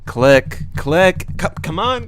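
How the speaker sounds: high, rising impatient pleas; eager urging. Retold or imitated. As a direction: beg the screen to respond. Acted eager tapping.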